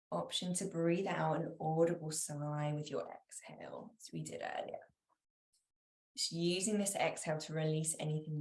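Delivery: calm yoga nidra voice with long pauses; guided meditation. Real, not acted. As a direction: give each instruction gently, then leave space.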